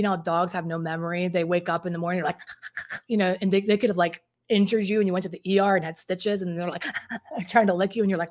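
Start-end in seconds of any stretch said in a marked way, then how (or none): 2.4-3.0 imitated happy dog pant; quick breathy pants like a dog. Mimics dog waking up happy. 6.9-7.4 imitated eager dog pant. Mimics dog licking after biting.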